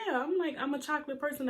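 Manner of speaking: high, light retold joke; joking it off. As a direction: brush it off jokingly, pitched well up. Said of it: "I joked it off".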